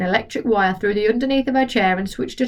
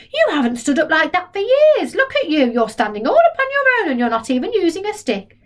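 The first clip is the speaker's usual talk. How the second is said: put-on higher, louder delighted boy; cried; 8 semitones higher, 3 dB louder than usual. George cheers Grandma standing up, higher and louder. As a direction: cry out in delight.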